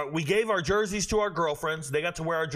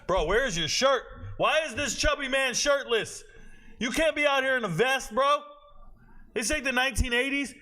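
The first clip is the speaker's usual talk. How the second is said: higher excited ribbing; playful roast; 7 semitones higher than usual. Real, not acted. Roasting a shirtless man on stream, playful.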